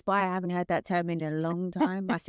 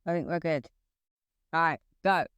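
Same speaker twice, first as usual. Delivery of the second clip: talking through hiccups; hiccuping between words. Real, not acted. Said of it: "Oh no, you got hiccups".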